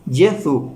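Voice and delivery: Jesús said as "yeh-soo" with no final s; Jesús as Italian Gesù; Italian pronunciation. Shown as a demonstration. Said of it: "se pronuncia".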